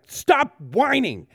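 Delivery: loud, high, drawn-out mock scolding; exaggerated exasperated retort. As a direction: snap at a whiner, stretching both words. Acting a mean retort to crying.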